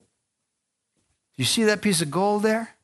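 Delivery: high, slow, drawn-out call of God; voice of the Lord. Acted. The Lord points the fish to the gold, high and slow. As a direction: coax the fish slowly from on high.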